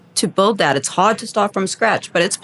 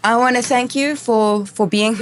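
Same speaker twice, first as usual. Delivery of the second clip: mouth burning from spicy food. Real, not acted. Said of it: "my mouth is burning".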